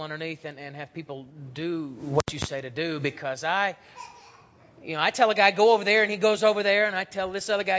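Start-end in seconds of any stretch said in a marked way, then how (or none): 5.5-6.0 higher, louder barked command to a soldier; commanding order. Retold or imitated. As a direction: order him off like an officer. Centurion giving soldiers orders.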